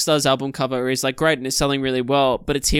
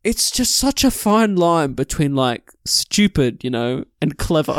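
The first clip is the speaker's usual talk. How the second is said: mock-sincere, slow and earnest; genuine; slower than usual. Quoting the band member's profound line, mock earnest. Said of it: "he says it so genuinely".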